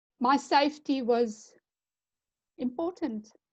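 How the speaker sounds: choked-up emotional voice. Explaining why they did not hesitate to come: getting emotional. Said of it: "I'm getting emotional now".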